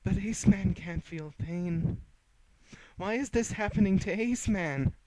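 high, loud, slow disbelieving voice; can't believe this is happening to him; bewildered villain. Acted. The wounded hag pleading to Lucy in high disbelief.

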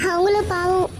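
tearful, voice catching; crying. Acted. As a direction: weep as you pity them. Mother weeping over children.

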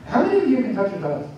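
quick, casual question; rushed. Real, not acted. Instructor asking the class about touching toes, rushed. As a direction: ask it a little too quickly. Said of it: "Say it slower".

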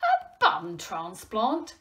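high, loud, drawn-out mock-incredulous echo; incredulous and close to laughing; amused disbelief. A narrator's reading. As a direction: repeat it slowly, tickled by the absurdity. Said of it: "Joe couldn't help but laugh".

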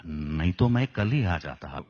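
timid, apologetic everyman; Amol Palekar impression. Shown as a demonstration. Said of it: "best example is Amol Palekar".

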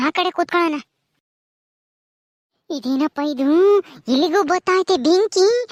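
alarmed cries at the fire; startled ghost. Acted. Mother's ghost startled by protective fire, alarmed. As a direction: recoil from the flames.

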